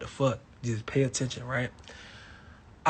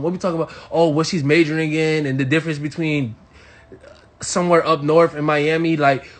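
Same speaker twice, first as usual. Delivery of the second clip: ordinary delivery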